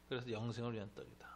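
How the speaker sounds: whispered, breathy hush; a whispered line to the congregation; hushed aside. Acted. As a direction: let it fall to a whisper. Preacher drops to a hush.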